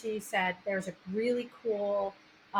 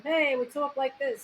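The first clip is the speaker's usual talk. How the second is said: New York Italian talk, pitched up a little; Italian-American accent; 4 semitones higher than usual. Shown as a demonstration. Host shows how Italians talk, playful Italian-American accent. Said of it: "I'm Italian".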